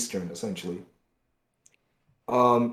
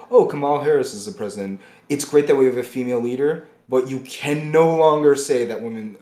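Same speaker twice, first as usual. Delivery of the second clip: mock enthusiasm; 3 semitones higher, 6 dB louder than usual. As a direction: gush over it, hammed-up. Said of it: "Or you go".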